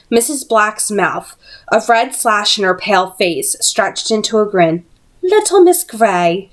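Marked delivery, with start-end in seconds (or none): 5.2-6.5 menacing villainess. Acted. Missus Black menacing Tessa.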